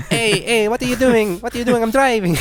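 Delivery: hammed-up yelling, high and loud; high mock yell. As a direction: shout it like an outraged driver. Mock Italian driver yelling.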